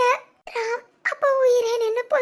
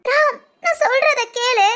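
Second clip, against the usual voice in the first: crying; 2 semitones higher, 4 dB louder than usual. Acted. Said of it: "நீ முத அழுகை நிப்பாட்டு".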